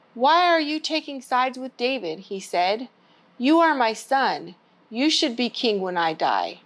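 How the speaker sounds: put-on gentle storybook read-aloud for kids; story time reading. Children's librarian reading a Bible story, gentle.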